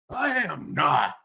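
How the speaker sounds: mild defiant shout, slow. Acted. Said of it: "Isaac shouted".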